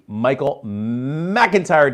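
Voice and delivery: drawn-out, half-hearted Scottish accent; attempted Scottish accent. Shown as a demonstration. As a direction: stretch out the name with a hint of Scottish. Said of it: "try to do that with a Scottish accent".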